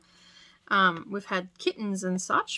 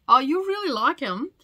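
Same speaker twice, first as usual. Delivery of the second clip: coaxing tease; 6 semitones higher, 8 dB louder than usual. Retold or imitated. Coaxing her husband.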